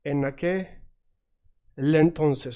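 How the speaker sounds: En aquel entonces slowed, the L of aquel carried into entonces; slow linked demo. Shown as a demonstration. Teacher showing the L linking into the next word. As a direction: stretch en and hook the L onto entonces. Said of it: "the ending of one word and the beginning of the next".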